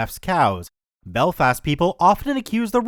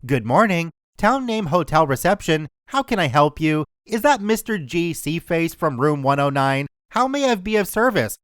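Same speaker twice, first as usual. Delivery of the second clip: receptionist voice. Acted. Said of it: "I put on my best receptionist voice".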